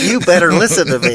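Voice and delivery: mock bossy. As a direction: lay down the law in jest, loudly. Mock bossing of a brother.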